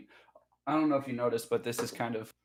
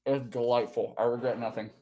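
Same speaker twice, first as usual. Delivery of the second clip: talking with mouth full. Real, not acted. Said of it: "Don't talk with your mouth full".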